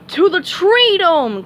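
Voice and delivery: mock-heroic starfish call; cried out. A narrator's reading. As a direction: charge off heroically. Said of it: "cried Patrick".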